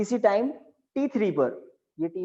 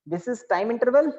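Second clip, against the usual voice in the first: dictating; 3 semitones higher, much slower than usual. Shown as a demonstration. Dictating definition.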